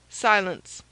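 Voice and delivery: loud stern command. Acted. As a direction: bark the order. Master silences servant.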